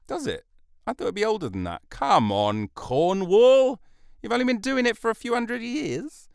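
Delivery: high-pitched indignant disbelief; mock incredulity. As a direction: scold in exaggerated astonishment, pitch soaring.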